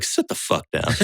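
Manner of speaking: low, breathless hushed command; hushed stern order. Retold or imitated. Doctor's order quoted.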